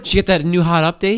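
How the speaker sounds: high, fast excited gush; mock gushing gadget fan. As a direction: gush like a phone fanboy. Mock tech-bro chat.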